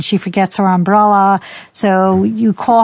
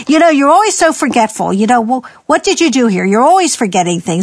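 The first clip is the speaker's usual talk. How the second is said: higher, exasperated nagging; mock scolding parent; 3 semitones higher than usual. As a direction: berate the kid, exasperated. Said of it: "you say".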